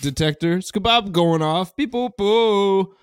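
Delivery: high hipster scat alarm; hip cat voice. Acted. Scatman's bullshit detector going off.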